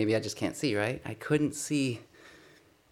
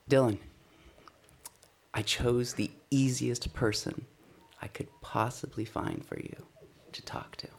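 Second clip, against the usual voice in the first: gentle voice of God. Retold or imitated. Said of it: "I have it quoted as if God was speaking to me".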